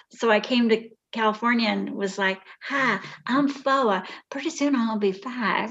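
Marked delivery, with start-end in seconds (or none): 2.6-5.7 put-on Southern accent with a twang. Retelling arriving in California as a four-year-old: Southern accent. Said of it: "I learned how to talk in the South".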